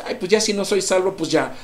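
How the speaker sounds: high, fast careless mock; mock shrug. Pastor mimicking the careless believer, fast. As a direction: rattle it off carelessly. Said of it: "en el cual decimos".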